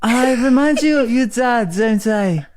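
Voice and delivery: mock femme fatale. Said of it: "You're like some sort of femme fatale".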